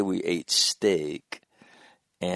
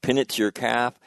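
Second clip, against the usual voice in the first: brisk, louder director giving orders, fast at the start; bossing an actor through an impossible stunt; mock film director; 3 semitones higher, 5 dB louder, faster than usual. Man imagines directing his son, hammed-up director's orders.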